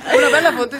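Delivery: laughing. Real, not acted. Amused reply to the joke.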